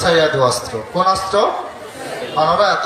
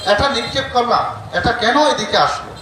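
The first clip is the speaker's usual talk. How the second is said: mock outraged demon, pitched higher; a raised, indignant cry over a failed weapon; enraged demon; 5 semitones higher than usual. The yaksha, furious his best weapon turned back, mock rage. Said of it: "তিনি আরো রেগে উঠলেন".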